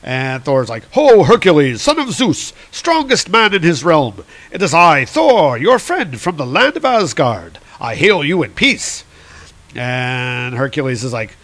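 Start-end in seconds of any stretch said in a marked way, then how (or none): 0.9-9.0 grand, higher mock-heroic greeting; hailing hero. Thor greeting Hercules in peace, grand hail. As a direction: proclaim it like a storybook god hailing a rival.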